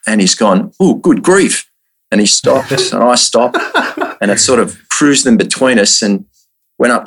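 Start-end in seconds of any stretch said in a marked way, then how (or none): 0.8-1.6 startled dad. Retold or imitated. Dad reacting to the croc.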